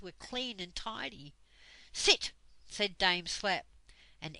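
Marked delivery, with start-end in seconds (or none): 1.9-2.3 one louder barked word; stern command. A narrator's reading. Dame Slap ordering the whole room to sit, stern. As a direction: snap it out so all obey.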